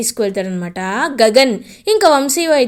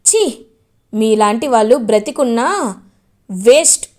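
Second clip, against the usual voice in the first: angry scolding; 3 dB louder than usual. Acted. Gagan scolds in-laws.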